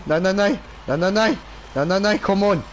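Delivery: quick panicked pleading; stuck and begging it to move; frantic no no no. Real, not acted.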